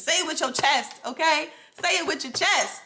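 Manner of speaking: rally them, mock half-yell of encouragement; emphatic urging. Real, not acted. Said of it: "Sorry if I'm yelling at you".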